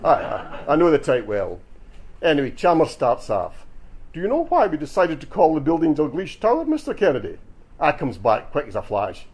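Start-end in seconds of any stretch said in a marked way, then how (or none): 4.1-7.4 lightly put-on posh English accent, raised pitch; a hint of la-di-da English interviewer; mock posh English. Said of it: "with a laddie day accent you could cut with a knife".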